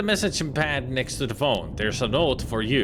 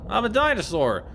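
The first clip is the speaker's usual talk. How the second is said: silly dinosaur; 2 semitones lower, much slower than usual. Pretend. Playing a dinosaur character.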